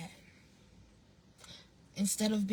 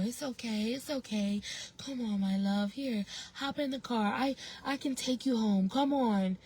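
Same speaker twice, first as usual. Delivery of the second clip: put-on coaxing a child; 3 semitones higher than usual. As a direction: gently lure a little one along. Acts coaxing a lost child away.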